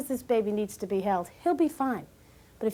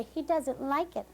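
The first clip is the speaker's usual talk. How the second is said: slow mock mother; 2 semitones higher, 3 dB quieter, slower than usual. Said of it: "you'll hear the mother say".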